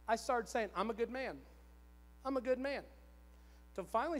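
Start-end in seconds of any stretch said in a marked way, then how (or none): 0.7-2.8 brisker, mildly assured retold affirmation; growing conviction. Husband starting to accept his wife's praise, more convinced. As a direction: say it as if starting to believe it. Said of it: "'Cause I just knew it".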